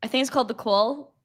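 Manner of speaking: "The Call" with a Brooklyn "Cawl", rounded long vowel; Brooklyn accent. Real, not acted. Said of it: "you said that with a Brooklyn accent".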